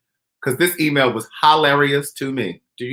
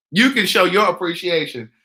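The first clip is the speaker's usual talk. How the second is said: slow punchline read. Shown as a demonstration. Reading the punchline slowly.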